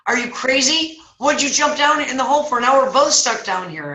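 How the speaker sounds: high-pitched, incredulous scolding; acted exasperation. Trapped man scolds friend who jumped in, acted exasperation. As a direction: berate a friend for a foolish move.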